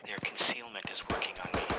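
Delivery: whispering. Real, not acted. Stealthy player in firefight.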